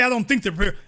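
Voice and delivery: "I don't think they're prepared" said lightly, stress on think; wrong wording. Shown as a demonstration. Correcting the quote, light wrong version. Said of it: "he didn't say".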